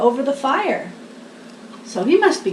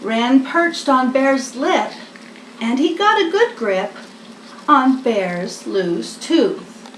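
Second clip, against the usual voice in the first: lively picture-book reading; reading to children. A narrator's reading. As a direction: read it like a bedtime story for little ones.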